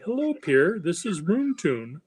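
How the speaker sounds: cheery demo hello; sample selfie greeting. Shown as a demonstration. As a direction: show the viewer how to say hello on video. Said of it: "little movie of yourself saying".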